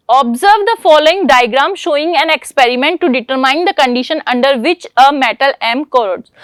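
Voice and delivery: slow, deliberate exam-paper read; reading the question. Acted. Teacher reading the question paper to the class, slow and deliberate. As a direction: read each word out slowly for students to copy.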